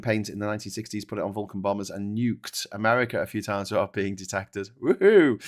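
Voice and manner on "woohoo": high loud woohoo; cheer. Real, not acted. Cheering a viewer's donation, loud and high. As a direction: whoop it out.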